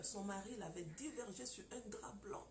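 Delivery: hushed, secret whisper; telling women the secret of the sheet, whispered. Real, not acted.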